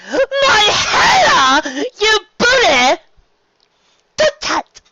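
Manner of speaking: loud, high-pitched outcry; indignant exclamations. Acted. Sea serpents protesting falling rock, loud indignant cries. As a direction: wail it high and loud, drawn out.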